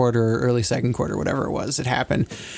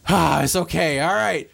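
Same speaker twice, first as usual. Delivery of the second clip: mock-relieved reassurance, pitched up in the middle; acted relief; 3 semitones higher than usual. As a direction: sigh out, then reassure everyone. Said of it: "collective sigh of relief".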